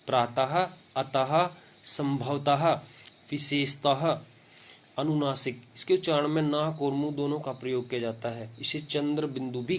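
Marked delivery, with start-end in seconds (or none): 0.1-4.2 each of प्रातः, अतः, संभवतः, विशेषतः ends in "ha"; visarga as ह. Shown as a demonstration. Teacher giving visarga examples, ending प्रातः, अतः, संभवतः, विशेषतः on ha. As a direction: sound out the final visarga as a full "ha". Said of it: "उच्चारण ह की तरह होता है".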